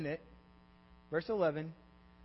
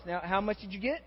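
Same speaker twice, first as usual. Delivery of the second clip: ordinary talk, nothing marked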